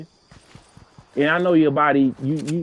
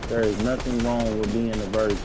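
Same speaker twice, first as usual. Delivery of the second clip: measured, evenly spaced "There is nothing wrong"; deliberately slow; 4 semitones lower than usual. Real, not acted. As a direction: spell it out slowly for them. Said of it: "say this slow for y'all".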